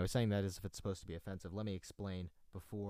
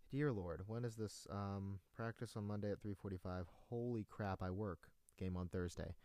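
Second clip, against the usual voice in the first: muttering; 11 dB quieter than usual. Real, not acted. Reading schedule to himself.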